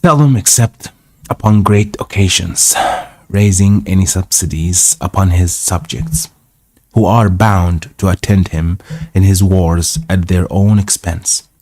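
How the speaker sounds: measured read-aloud narration; story narration. A narrator's reading. Reading an old travel tale aloud, story narration.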